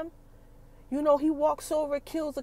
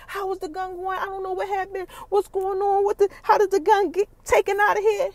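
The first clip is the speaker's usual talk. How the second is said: higher, rising alarm, louder toward the end; frantic confusion; 7 semitones higher, 5 dB louder than usual. Retold or imitated. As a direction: panic building as she searches. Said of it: "She trying to figure out".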